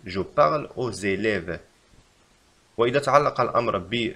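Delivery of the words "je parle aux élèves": slow, even reread; slow repeat. Shown as a demonstration. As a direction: repeat it slowly. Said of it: "يجب علينا أن نكتب".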